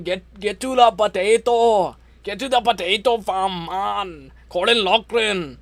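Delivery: put-on rough, jokey Irish accent; attempted Irish accent. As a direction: try your best at an Irish accent. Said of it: "I can't do an accent, but, like, I'll try my best".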